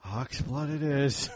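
slow, resigned confirmation; resigned maker. Retold or imitated. Holster maker gives in on the colour, slow and resigned. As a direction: sigh the words out in defeat. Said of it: "He's like".

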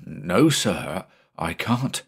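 mildly nervous answer; uneasy. Acted. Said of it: "the mate replied uneasily".

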